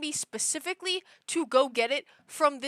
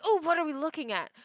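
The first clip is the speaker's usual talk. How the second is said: lightly voiced curious cat, higher and quicker; voicing the cat; 5 semitones higher, faster than usual. Cat butting in on whatever she's looking at, lightly voiced curiosity. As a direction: pipe up lightly as the nosy cat. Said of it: "then she'll be like".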